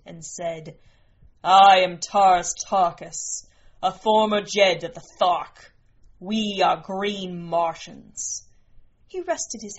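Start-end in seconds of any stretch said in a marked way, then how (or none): 1.4-8.5 loud, declaiming alien warrior; proud Martian giant. Acted. Green Martian presents himself to the queen, loud and proud. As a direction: announce yourself forcefully as a towering chieftain.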